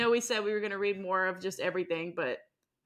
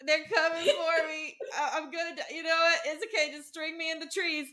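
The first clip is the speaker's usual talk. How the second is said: higher, breezy and resigned; dying man shrugging it off; mock resigned dying man; 4 semitones higher than usual. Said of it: "the guy on the ground's like".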